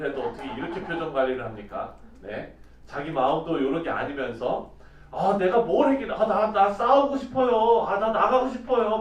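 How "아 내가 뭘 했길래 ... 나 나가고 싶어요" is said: mock earnest pleading; fake pleading. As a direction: play David feigning eagerness to fight. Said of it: "막 이러는 거예요".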